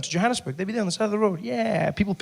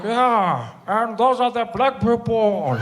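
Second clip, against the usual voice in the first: dry Mandela reply; 3 semitones higher, much slower than usual. Acted.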